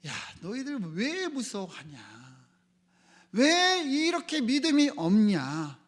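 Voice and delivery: reproving teacher, swelling on the second question; reproachful. Retold or imitated. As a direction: scold the disciples, drawing out the question. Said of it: "제자들을 책망하듯 말씀하셨어요".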